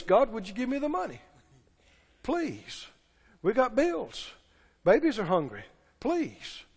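low, soft, whiny begging to God; mock pleading prayer. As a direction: imitate a desperate believer pleading quietly. Mocking believers begging God for money.

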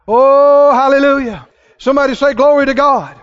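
fervent hallelujah call; strong pulpit praise call; preacher leading praise. Real, not acted. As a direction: rouse the congregation to answer. Leads congregation in praise.

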